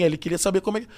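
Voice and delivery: ordinary talk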